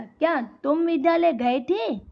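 questioning tune with stress on विद्यालय; asking a question. Shown as a demonstration. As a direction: ask it clearly, leaning on विद्यालय. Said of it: "जैसे उसको प्रश्न पूछ रहे हैं".

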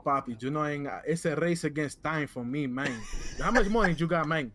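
lightly put-on Latino accent; mild hammed-up Latino accent. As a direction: talk it through a Spanish-flavored accent. Held accented character.

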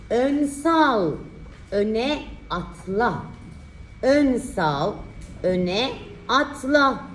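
slow, drawn-out dictation; dictating. Shown as a demonstration. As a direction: spell out the sentence slowly. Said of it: "dikte çalışması".

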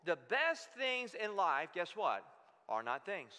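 slow build, pause, then drop low on "Are not things."; dramatic pause before the punchline. Shown as a demonstration. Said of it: "Here's a statement I want you to chew on".

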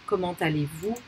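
Comment allez-vous evenly, T linked into allez; liaison T. Shown as a demonstration. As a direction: say Comment allez-vous as "ko-mahn-tah-lay-voo". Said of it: "is pronounced as a liaison".

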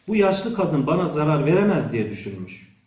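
ordinary delivery

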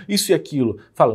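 ordinary talk, nothing marked

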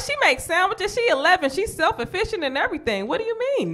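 high, pleading sales pitch; high mock pleading. Arguing with granny that her eleven-year-old is easy, high pleading. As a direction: sell the daughter high and eager.

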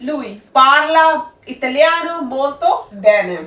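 ਪਾਰਲਾ said slowly and clearly, with a falling close. Shown as a demonstration. Teacher shows students the correct sentence after the wrong one. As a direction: model the right sentence at a careful pace. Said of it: "ਇਹਦੀ ਸਹੀ ਕੀ ਆ?".

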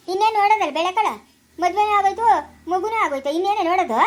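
loud, indignant retort; angry exasperation. Acted. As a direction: dismiss the idea heatedly. Elder angrily rejects going to see. (ಸಿಟ್ಟಿನಿಂದ ತಳ್ಳಿಹಾಕುತ್ತಾ)

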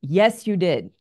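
firm but calm, no malice; a hint of a firm husband. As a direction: state it steadily, without anger. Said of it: "he said it strongly and firmly without any malice".

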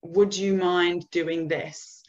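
slow, polite "Would you mind doing this?" as a request; tentative question. Shown as a demonstration. Boss asking instead of instructing, slow questioning request. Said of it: "if you say it like a question".

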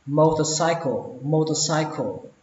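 "motorcycle" with the voice lifted on "cy". Shown as a demonstration. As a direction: raise your tone at the "sai" part of "motorcycle". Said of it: "Cách thứ tư các bạn lên giọng cái chỗ sai này".

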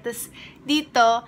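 finger stretching mouth corner; speaking with lip pulled aside; cheek pulled by finger. Real, not acted. Seen 0: finger pulls cheek/lip corner to show braces, only early part.

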